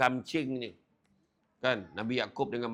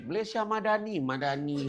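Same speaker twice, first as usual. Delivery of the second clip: a high, sing-song mimic of the helper; imitating Pakistani man; 5 semitones higher than usual. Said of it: "sebut dia". (meniru pakcik Pakistan menyebut Madani)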